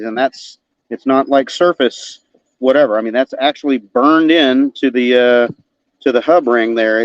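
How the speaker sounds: talking around a flashlight in mouth. Real, not acted. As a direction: mouth held open by a flashlight. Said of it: "as I talk to you with a flashlight in my mouth".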